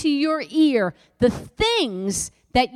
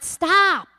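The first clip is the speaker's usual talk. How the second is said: emphatic stop; 6 semitones higher, 5 dB louder than usual. Real, not acted. Preacher cutting off negative talk.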